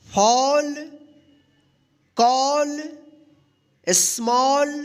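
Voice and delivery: ordinary talk, nothing marked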